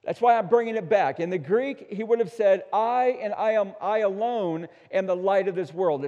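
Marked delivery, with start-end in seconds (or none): 2.7-6.1 insistent stress on each "I" and on "alone"; emphatic, definitive. Retold or imitated. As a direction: drive home "I alone" as definitive. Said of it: "It's very emphatic, very definitive".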